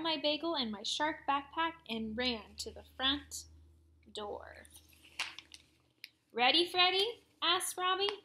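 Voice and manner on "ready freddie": cheerful. A narrator's reading. Friend greeting at door.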